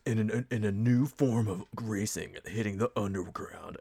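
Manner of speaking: lightly voiced trailer narrator; a hint of the epic trailer announcer; movie trailer guy voice. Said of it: "it's the In a World trailer guy".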